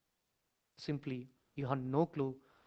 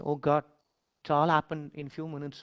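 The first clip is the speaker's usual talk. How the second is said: anguished cry; 6 dB louder than usual. Pretend. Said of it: "screaming like anything".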